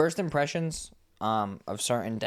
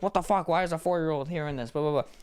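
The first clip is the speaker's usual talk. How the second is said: higher mock rant, trailing off; imitating angry dad; 5 semitones higher than usual. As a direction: parody the religious dad's scolding. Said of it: "And he's like".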